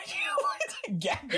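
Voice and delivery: breathy high whisper, slow and creepy; slow spooky whisper; eerie whisper. Real, not acted. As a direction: whisper it like a threat. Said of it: "just how you said it".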